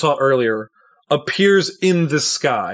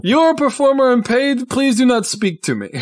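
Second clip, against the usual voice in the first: higher-pitched, disdainful put-down; haughty dismissal; 10 semitones higher than usual. Acted. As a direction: brush off an inferior. Tristan haughtily dismisses Nostroy.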